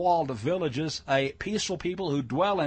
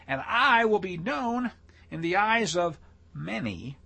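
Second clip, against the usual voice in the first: measured declaiming with raised pitch; emphatic scripture reading; 3 semitones higher than usual. Acted. Preacher reading God's judgment on Gog, declaimed. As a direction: pronounce each plague with weight. Reads prophecy aloud.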